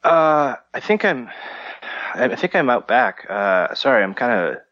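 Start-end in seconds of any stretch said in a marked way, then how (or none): 3.3-4.6 dazed and a bit dizzy. Acted. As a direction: talk like your head is spinning. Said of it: "I'm kinda a little, uh, dizzy".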